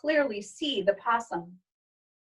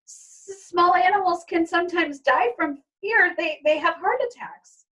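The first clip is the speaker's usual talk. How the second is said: higher, halting nervous father; stammering; 8 semitones higher, 4 dB louder than usual. Acted. Father explaining to crying daughter, stammering. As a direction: stumble through the explanation. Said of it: "as he stammers".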